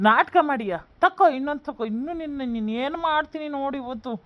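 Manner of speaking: acted raging bully; violent anger. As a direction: lash out while striking. Son beats his mother, threatening.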